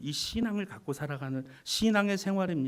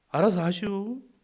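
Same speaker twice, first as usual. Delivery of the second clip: Chungcheong country dialect; 6 semitones higher, 6 dB louder than usual. Telling an audience how a deacon answers, in Chungcheong dialect. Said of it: "충청도 사투리가 나고".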